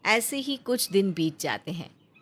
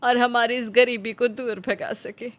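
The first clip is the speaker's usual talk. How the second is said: slightly higher, tender mother urging her son to eat; mother's gentle coaxing voice; 4 semitones higher than usual. Acted. Mother Nandita coaxing her hungry son to eat, tender. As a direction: coax him like a caring mother who knows he's hungry.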